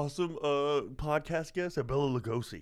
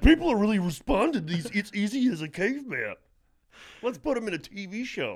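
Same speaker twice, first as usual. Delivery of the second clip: mock Hollywood exec; 5 semitones higher, 3 dB louder than usual. Mocking Hollywood executives.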